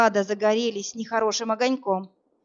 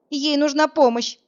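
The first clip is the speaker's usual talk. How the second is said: a high, loud cry for help; shouted; 6 semitones higher, 5 dB louder than usual. A narrator's reading. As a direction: cry out in alarm. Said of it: "закричала я".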